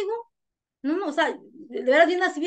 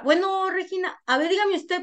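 imitating the older woman's questioning, pitched higher; señora inquisitiva; 6 semitones higher, slower than usual. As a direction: lift the voice as the señora asking for the story. Imita a la señora que pregunta. (imitando a la señora, tono más agudo)

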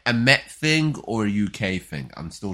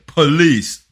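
retold police shout; 7 semitones higher, 12 dB louder than usual. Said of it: "I could hear".

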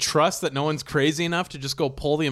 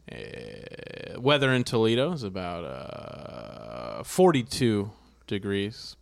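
airline captain voice; 3 semitones lower than usual. Acted. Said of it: "you're the pilot announcing".

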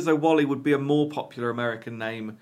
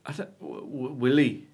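Afrikaans accent attempt; 4 dB quieter than usual. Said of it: "Say it in Afrikaans".

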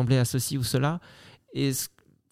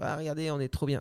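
smug show-off; 8 dB quieter than usual. Retold or imitated. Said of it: "les gens qui se montrent".

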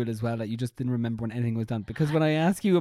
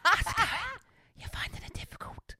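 English accent. Shown as a demonstration. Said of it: "I do a little bit of an English accent".

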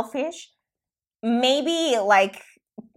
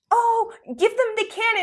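imitating mom; 13 semitones higher than usual. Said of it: "So my mom was always like".

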